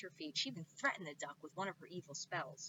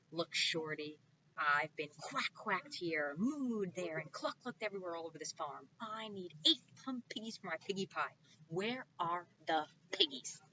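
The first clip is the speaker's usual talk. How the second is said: fed-up witch; 3 dB louder than usual. Acted. Witch scolding farmer.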